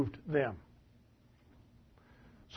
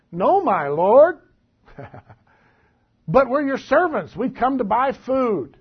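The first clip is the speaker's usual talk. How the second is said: mock groveling; 4 semitones higher, 4 dB louder, slower than usual. Brothers grovel before Joseph.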